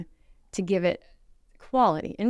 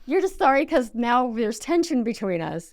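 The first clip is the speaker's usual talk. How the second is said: higher, louder mock exasperation; acted exasperation, pitched up; exasperated retort; 5 semitones higher, 4 dB louder than usual. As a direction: call out a fake apology in disbelief. Scoffing reply to fake apology.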